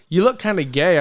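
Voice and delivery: retelling it through laughter; giggly retold line; laughing quote. Repeating producer's line, laughing.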